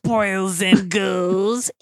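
very slow, cracking up mid-line; laughing Crypt Keeper voice. Acted. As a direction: stretch it out, laughing through it. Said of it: "your line as the Crypt Keeper".

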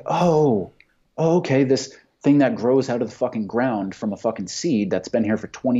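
a sarcastic parody of obeying a neighbor; sarcastic mock agreement. Mocking the neighbor's worry, sarcastic.

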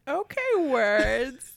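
very slow, drawn-out mimicry; incredulous drawling quote; mocking interruption. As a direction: stretch both words out in mock imitation. Repeats the interrupter's remark mockingly.

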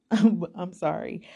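apologizing through a laugh. Real, not acted.

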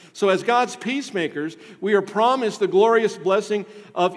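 loud, high, ringing pulpit voice; full-force preaching. Acted. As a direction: preach it out to the whole church.

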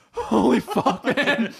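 laughing. Real, not acted. Burning hot sauce, laughing.

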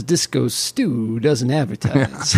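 slow, lightly voiced cartoon character; mild slow impersonation; Disco Stu. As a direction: draw it out a little, lightly in character. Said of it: "he looks at the jacket and says".

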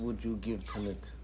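softly put-on Russian accent. Host asking co-host for a score, in a mock Russian accent. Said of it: "doing the rest of the review with the Russian accent".

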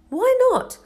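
high-pitched, curious question; puzzled. A narrator's reading. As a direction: ask it in innocent surprise. Harry questions Hagrid's reluctance.

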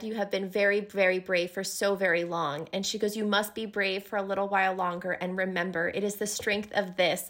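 low, soft, lightly voiced reassurance; mother's gentle voice. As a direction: quote a mother steadying her child. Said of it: "she hears her mother's voice".

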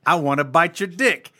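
goofy aggressive goose voice; loud silly goose growl; silly clown. Pretend.

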